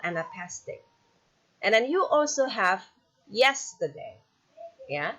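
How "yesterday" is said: "yesterday" with YES stressed, TER-DAY light; first-syllable stress. Shown as a demonstration. Teacher showing a dactyl example, first-syllable stress on "yesterday". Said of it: "So you have stress".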